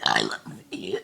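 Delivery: low belch; burped words. Shown as a demonstration. Burping I love you to her dog, low belch. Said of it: "Take two".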